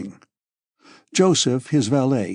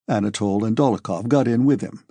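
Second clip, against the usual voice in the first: ordinary delivery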